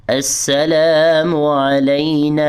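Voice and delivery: السلام علینا with the final نا held long; lengthened na. Shown as a demonstration. Teacher modelling the long vowel in علینا. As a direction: stretch نا in علینا for a full beat. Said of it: "ہم ایک second کے لیے لمبا کریں گے".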